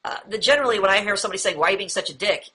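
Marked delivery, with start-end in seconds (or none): 1.6-2.5 mildly hostile demonstration; accusatory, hostile. Shown as a demonstration. Teacher quoting a confrontational question, mildly accusatory. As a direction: accuse them, with understated hostility. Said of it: "it's almost like an accusatory or a hostile tone".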